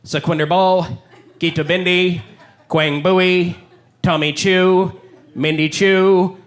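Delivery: slow, deadpan principal reading names; school principal. Retold or imitated. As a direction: read the honor roll like a bored principal. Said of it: "He'd be like".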